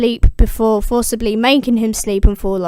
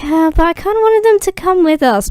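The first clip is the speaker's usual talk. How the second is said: mildly bummed; 7 semitones higher, 3 dB louder than usual. Retold or imitated. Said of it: "a little bummed about this".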